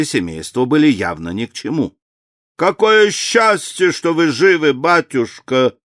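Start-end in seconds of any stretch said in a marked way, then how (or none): 2.6-5.8 высоко и медленно, с восторгом; воскликни с облегчением; радостное восклицание. A narrator's reading. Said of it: "восклицал лорд Дэниел". (радостно восклицает)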